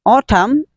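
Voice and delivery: "Autumn" with a crisp T, AW-tum; basic pronunciation. Shown as a demonstration. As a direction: say "Autumn" with a true T sound. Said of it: "is the basic pronunciation".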